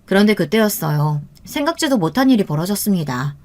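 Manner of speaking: usual speaking voice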